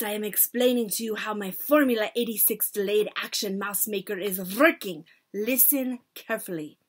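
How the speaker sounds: lightly voiced witch lecturer, low and brisk. Witch explains her mouse formula to the audience, instructing.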